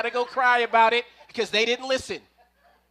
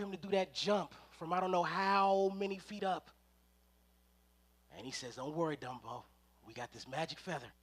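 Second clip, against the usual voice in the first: much lower and softer, almost a hush; hushed storytelling; 8 semitones lower, 10 dB quieter than usual. A narrator's reading. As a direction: draw them in with a low, soft hush.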